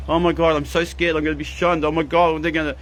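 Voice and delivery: a hammed-up panicky inner voice, quickening near the end; imitating a frightened ego to a live chat; mock scared ego voice. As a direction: play the fearful ego, half mocking it. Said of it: "the thought processes of the ego saying".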